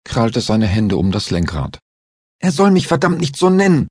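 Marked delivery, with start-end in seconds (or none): 2.4-3.9 high, angry words forced through clenched teeth; furious driver, voice pitched up; pressed through teeth. A narrator's reading. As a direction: spit it out, jaw locked tight with rage. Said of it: "zwischen seine zusammengebissenen Zähne hindurch gepresst".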